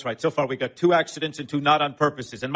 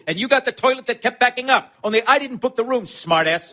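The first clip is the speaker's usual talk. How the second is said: heated accusation; 7 semitones higher, 4 dB louder than usual. Acted. Escalating quarrel.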